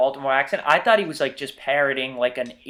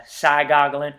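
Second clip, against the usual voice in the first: Appalachian "side goggling", a bit louder; Appalachian accent; 5 dB louder, slower than usual. Shown as a demonstration. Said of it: "and they'll say".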